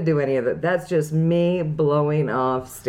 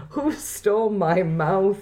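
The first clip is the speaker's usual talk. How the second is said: laughing; slower than usual. Real, not acted. Laughing at own journal writing.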